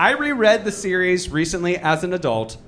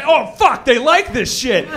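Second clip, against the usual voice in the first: mock dismay; 5 semitones higher, 4 dB louder than usual. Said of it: "She's ma".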